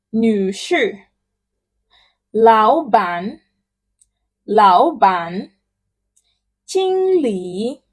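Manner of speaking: each title said twice, slowly and clearly; title drill. Shown as a demonstration. Teacher drilling titles for repetition. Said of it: "Please pronounce it".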